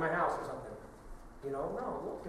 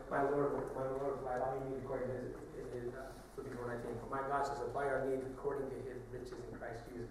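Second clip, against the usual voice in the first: softer, lower, slowed prayer; quiet prayerful quote; 4 semitones lower, 6 dB quieter than usual. Acted. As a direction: sink into a hushed prayer. Quoting prayer and scripture, subdued.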